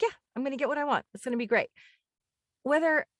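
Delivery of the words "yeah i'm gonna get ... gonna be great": fast, high, bouncy affirmation; cheesy pep talk. Retold or imitated. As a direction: hype yourself up like a dork. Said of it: "like a total dork".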